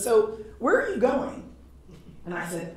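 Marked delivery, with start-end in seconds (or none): 0.0-1.5 higher, slow curious question; curious clerk. Retold or imitated. Airport clerk asking a traveler where she's headed, curious. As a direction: ask it like a friendly nosy clerk. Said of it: "he goes".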